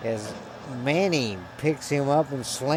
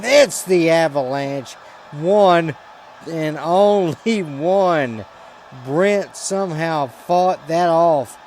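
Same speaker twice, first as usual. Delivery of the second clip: louder, higher, slow drawn-out call; roaring excitement; 4 semitones higher, 7 dB louder, slower than usual. Real, not acted. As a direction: bellow it like the match is ending. Finisher and near fall.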